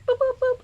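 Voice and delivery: high little boops; quick playful booping sound effect; imitated noise. Imitates getting struck in retold play.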